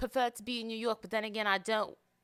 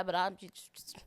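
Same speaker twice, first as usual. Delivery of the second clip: whispered aside; slower than usual. Real, not acted. Trailing aside.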